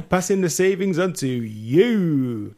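advert tagline. Pretend. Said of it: "Can I do it in an accent?".

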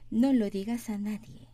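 very slow Spanish, stress on "lo"; slow model reading. Shown as a demonstration. Teacher reading slowly for students. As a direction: say it slowly for the class. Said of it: "teacher models slowly".

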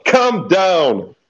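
high laughing plea; calling out again. Real, not acted. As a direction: plead with them, still laughing. Repeated call to frantic player.

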